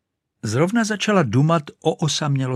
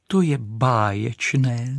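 exclaimed delight; 3 semitones higher, slower than usual. Acted. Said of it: "zvolala Raketa".

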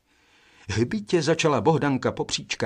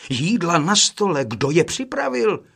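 first brother's louder, higher exclamation; called out; 6 semitones higher, 4 dB louder than usual. A narrator's reading. First brother to his brothers about the food, calling out. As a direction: call out the question in a raised voice. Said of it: "svolal první".

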